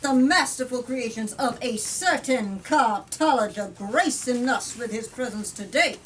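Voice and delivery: reading a politician's speech from the book; firm, rhetorical read-aloud; story narration. A narrator's reading. Politician addressing Parliament, rhetorical speech read aloud.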